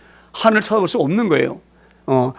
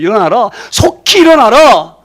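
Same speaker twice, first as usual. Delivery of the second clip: tearful plea. Retold or imitated. God urging Jonah to rise, a tearful cry. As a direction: plead through tears.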